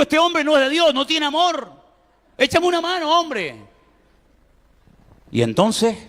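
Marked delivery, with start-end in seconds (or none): 0.0-3.5 frightened plea. Retold or imitated. Young Manuel's frightened inner plea.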